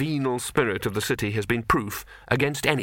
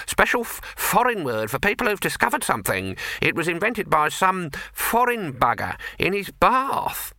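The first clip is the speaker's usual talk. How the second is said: gossipy neighbour; 7 semitones higher than usual. Acted. Neighbour explains.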